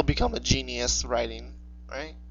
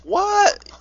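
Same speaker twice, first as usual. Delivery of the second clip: very high-pitched squeak of disbelief; shocked. Real, not acted. Co-host reacting to how young they are, high shocked squeak.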